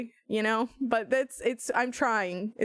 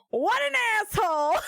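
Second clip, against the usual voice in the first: laughing outburst; 10 semitones higher than usual. Real, not acted. Laughing jab at Jake while defending herself in court. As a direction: cry it out through laughter.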